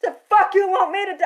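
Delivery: loud, high, fast snap; angry outburst. Retold or imitated. Demanding what the client wants of her, a fast angry shout. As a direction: fire it at her in disbelief.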